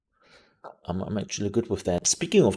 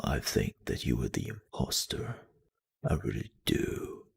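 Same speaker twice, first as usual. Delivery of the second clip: much lower, soft rumbling imitation of the husband; deep voice impression; 6 semitones lower, 9 dB quieter than usual. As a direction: growl it low like a gravel bass. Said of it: "he was really talking in this".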